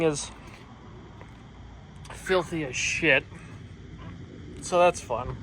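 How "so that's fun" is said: hiccups. Real, not acted. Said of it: "don't mind my hiccuping".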